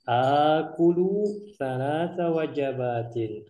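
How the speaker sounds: slow, lightly voiced Salim answer; Salim's answer. Shown as a demonstration. Teacher voicing Salim's Arabic answer for learners, slow. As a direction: read Salim's reply slowly and deliberately. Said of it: "Maka kata Salim".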